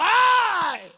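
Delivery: loud high yelp of pain; mock pain cry. Father when his daughter jumps on him, loud yelp. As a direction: cry out as if hurt.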